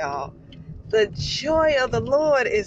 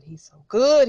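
louder, ringing out with conviction; fervent declaration; 6 dB louder than usual. Real, not acted. Worshipper declaring to viewers God's goodness, fervent. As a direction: declare it out with fervour. Said out after murmuring.

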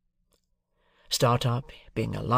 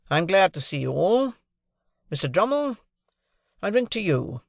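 higher, louder, unhurried host's address; genial host lawyer; 7 semitones higher, 3 dB louder than usual. Acted. Jaggers to the young gentlemen, higher hosting voice. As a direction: toast the young men with dry authority.

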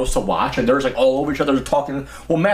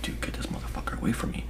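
much softer, whispered aside; whispered plea; 12 dB quieter than usual. Retold or imitated. Girl silently begging her friend for rescue, whispered. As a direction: hiss it like a secret plea for rescue.

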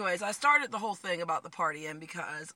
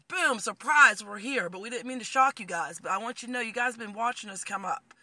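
radio station announcing; 6 dB louder than usual. Acted. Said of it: "the radio station's like".

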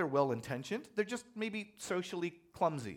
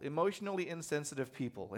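mock nervous; 2 semitones lower than usual. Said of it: "says the preacher very nervously".

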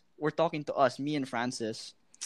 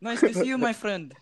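higher-pitched imitated Arabic accent; 5 semitones higher than usual. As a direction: lightly imitate a friendly Arabic-accented gamer. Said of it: "some Arabic, like, accent".

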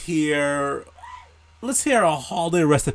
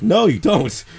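firm no; 5 semitones higher, 6 dB louder than usual. Retold or imitated. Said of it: "And I'm like".

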